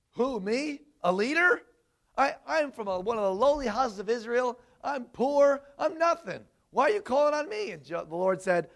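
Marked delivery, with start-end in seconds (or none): 0.1-7.7 a hint of a small, doubting man, lightly voiced; voice of Gideon. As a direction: protest meekly, as the least in the house. Gideon protesting in retold scene.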